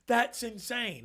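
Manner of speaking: high, mock disbelief; incredulous. Imitating a client hearing the sales target, mock incredulous. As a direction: pitch the listener's shocked reaction high. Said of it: "You're like".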